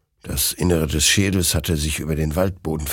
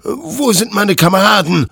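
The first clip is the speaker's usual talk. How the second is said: higher, louder menacing challenge; threatening; 10 semitones higher, 6 dB louder than usual. Acted. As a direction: threaten the demon, voice raised. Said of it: "drohte Hektor". (drohend, höher und lauter)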